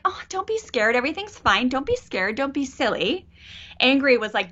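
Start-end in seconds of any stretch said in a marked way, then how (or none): 0.0-3.3 higher-pitched mock parental soothing; dismissive reassurance. Parent waving away a scared child's fear, dismissive reassurance. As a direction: brush off a child's fear lightly. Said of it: "Scared was like".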